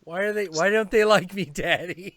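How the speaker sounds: whiny cat. Retold or imitated. Cat pleading to its owner, whiny. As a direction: plead like a sad kitten. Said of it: "Gomez was always like".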